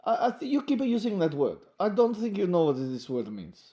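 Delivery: lightly put-on Russian accent. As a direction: say it with a hint of Russian. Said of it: "talking in Russian accent".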